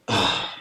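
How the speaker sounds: imitated worn-out sigh; exhausted groan. Little daughter plopping face down on the bed, exhausted groan. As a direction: let out a flopping, drained "ah". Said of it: "like, for sheer exhaustion".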